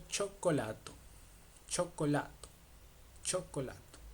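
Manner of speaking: chocolato said cho-ko-LA-to; Italian pronunciation. Shown as a demonstration. Teacher repeats a C I O example for learners, careful pronunciation. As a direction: stress the la in chocolato, opening on cho. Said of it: "Cho, por ejemplo".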